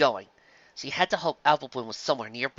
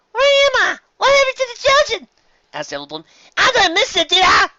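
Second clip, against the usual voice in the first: dazed filly; 10 dB louder than usual. Acted. Apple Bloom wakes from the spell, high and dazed. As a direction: wake up confused.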